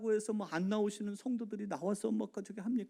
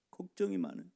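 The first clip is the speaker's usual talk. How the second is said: ordinary delivery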